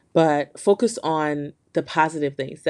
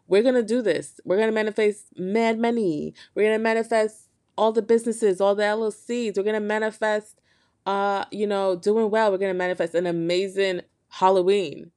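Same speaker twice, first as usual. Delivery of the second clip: higher, pumped-up rallying call; hyped-up promise; 5 semitones higher than usual. Real, not acted. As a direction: fire up the listeners. Hyping up listeners about manifesting.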